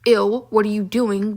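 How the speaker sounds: "Ew, what are you doing?" said slowly and firmly; slow, pointed "Ew, what are you doing?"; deliberate repeat. Retold or imitated. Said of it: "I'm gonna say it again".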